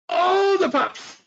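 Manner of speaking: put-on high, slow toddler voice; little girl voice. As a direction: say it like a three-year-old. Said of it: "She goes".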